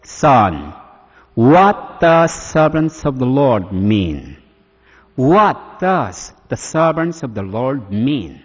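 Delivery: slow, solemn voice of God; slow questioning divine voice; voice from heaven. Retold or imitated. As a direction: speak slowly as a booming heavenly voice. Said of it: "some voice came from heaven".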